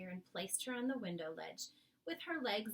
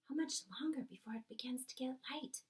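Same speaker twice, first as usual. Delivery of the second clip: breathy unvoiced whisper, higher; 5 semitones higher than usual. Sophie anxiously whispering to the BFG before dawn. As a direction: Sophie asking in a hushed whisper. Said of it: "Sophie whispered".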